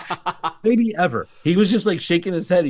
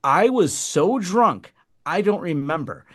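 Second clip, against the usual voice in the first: imitating drunk woman; 2 semitones higher than usual. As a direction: whine it like a drunk making excuses. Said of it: "She goes".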